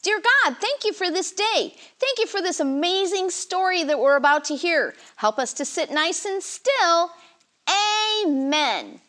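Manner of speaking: put-on simple children's prayer. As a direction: pray gently with the kids.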